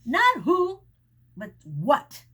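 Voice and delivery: a mild correcting tone. A narrator's reading. Arthur correcting Charlie, mildly firm. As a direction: set him straight, lightly. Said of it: "Arthur corrected".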